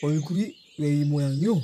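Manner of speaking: astonished husband. Acted. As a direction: ask about her face in alarm.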